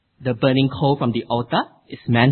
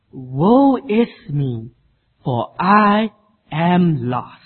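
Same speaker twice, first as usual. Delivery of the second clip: horrified cry; 3 semitones higher, 4 dB louder, much slower than usual. Acted. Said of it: "with growing horror".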